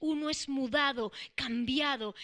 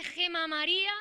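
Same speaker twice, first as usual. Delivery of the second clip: mother's authoritative call; 3 semitones higher than usual. Retold or imitated. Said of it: "llamando a alguien con autoridad".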